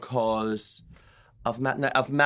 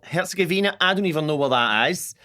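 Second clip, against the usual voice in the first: put-on Scottish accent; 5 semitones higher, 5 dB louder than usual. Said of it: "the Scottish accent".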